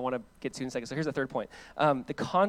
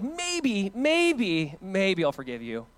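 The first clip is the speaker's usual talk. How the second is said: grudging hesitation; 2 semitones higher, much slower than usual. Pretend. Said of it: "It's not like".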